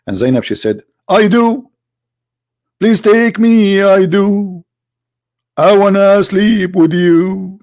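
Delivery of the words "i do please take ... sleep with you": higher, hammed-up breathless yes; mock eager woman. Mimicking Zainab answering the prophet, higher mock eager. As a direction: squeal it back as a mocking woman.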